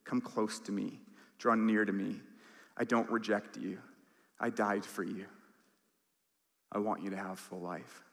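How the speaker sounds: soft, gentle words of a loving Father; tender father. Acted. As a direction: hush down and reassure tenderly. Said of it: "Our Heavenly Father saying".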